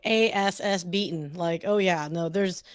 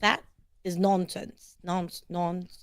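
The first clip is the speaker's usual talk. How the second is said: slow, careful British imitation; practising a British accent slowly; attempted British accent; 4 dB quieter, slower than usual. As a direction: sound out "nonsense" in British. American copying a British phrase.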